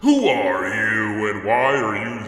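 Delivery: cranky giant. Acted. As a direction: demand answers as the giant. Giant confronts thief.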